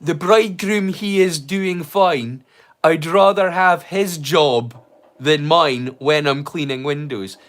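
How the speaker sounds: measured, rhythmic lyric recital; reciting lyrics. Shown as a demonstration. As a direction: recite the lines slowly in verse rhythm. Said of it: "one of the lyrics are".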